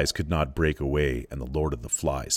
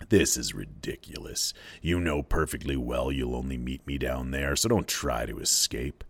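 lower, softer, lightly voiced scorn; contemptuous pig's head; 4 semitones lower, 4 dB quieter than usual. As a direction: dismiss him coldly. Lord of the Flies scolds Simon.

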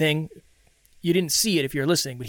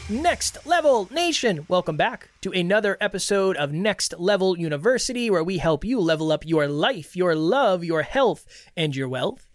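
podcast host welcome. Acted. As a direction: greet the listeners like a crowd. Host opens episode.

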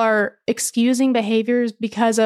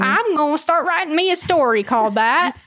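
higher hammed-up Southern twang; Southern accent; 5 semitones higher than usual. Host playing along in skit, mock Southern. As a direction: declare it in playful country Southern.

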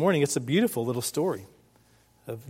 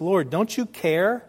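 higher, slow complaint with an edge; mildly hammed-up wounded reproach; passive-aggressive; 4 semitones higher, slower than usual. Martha complaining to Jesus, passive-aggressive. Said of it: "a little bit of passive aggression".

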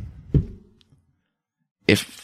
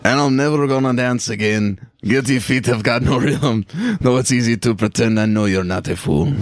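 higher-pitched character voice; lightly acted character, pitched up; Anton; 3 semitones higher than usual. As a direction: put on a higher character voice for reciting lyrics. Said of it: "gotta pretend to be Anton".

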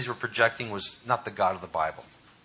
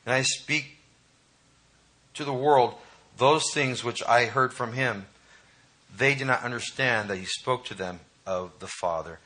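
scripture reading. Acted. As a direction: read the verses steadily to the congregation. Reads scripture passage.

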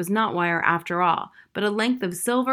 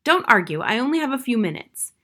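firm command, a bit louder; authoritative; 4 semitones higher, 4 dB louder than usual. Acted. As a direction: cut off the argument with authority. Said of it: "in a voice so authoritative".

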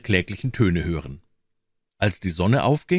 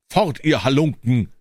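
higher, mildly raised storyteller's shout; called out; 6 semitones higher, 4 dB louder than usual. A narrator's reading. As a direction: call it out as a sharp order to leave. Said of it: "rief er ihnen zu". (ausgerufen, mit erhobener Stimme)

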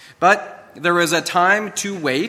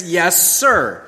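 crisp yes sir; 3 dB louder than usual. Shown as a demonstration. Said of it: "only one response to that statement".

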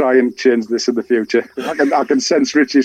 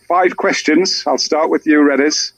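usual speaking voice

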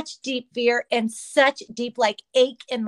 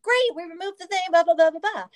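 imagined good news; 7 semitones higher than usual. Retold or imitated. Imagined good report from doctor.

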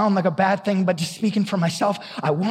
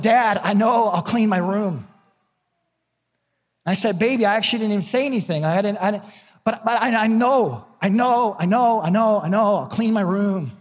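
daughter's eager reply; 3 semitones higher than usual. Retold or imitated. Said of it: "my daughter said".

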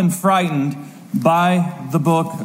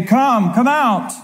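rising to a higher, falling call; living creature's summons; 5 semitones higher, slower than usual. Acted. Fourth living creature calls out Death, summoning. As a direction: summon with short drawn calls.

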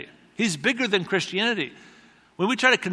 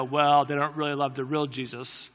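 lightly snide, dismissive put-down; a touch of smug correction on Well; with an attitude; 4 semitones lower, 5 dB quieter than usual. Shown as a demonstration. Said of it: "we can kinda get an attitude and go".

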